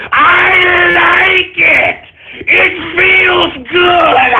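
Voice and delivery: very slow shouted relish; slow villain gloat. Acted. Streamer revelling in troll anger, slow gloat. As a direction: stretch every word, savouring it.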